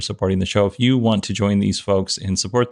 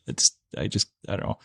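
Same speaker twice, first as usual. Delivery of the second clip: soft laugh then a much softer trailing mumble; giggling, trailing off; 7 dB quieter, faster than usual. Real, not acted. Host laughing about his friend, giggling trail-off. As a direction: lose the words to a giggle. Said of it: "I'm kind of in a silly mood tonight".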